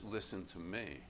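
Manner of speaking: a quiet, inviting call to come closer; God's gentle call. Retold or imitated. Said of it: "God says".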